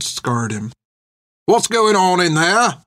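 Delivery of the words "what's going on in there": high, slow, drawn-out call; calling from another room. A narrator's reading. Soldier next door checking on the kitchen, calling out. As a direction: holler a question through to the kitchen. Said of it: "called a voice from the other room".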